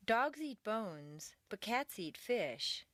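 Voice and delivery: slow, "Dogs" and "bones" set against "cats" and "fish"; contrast phrasing. Shown as a demonstration. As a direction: leave "bones" open, then close on "fish".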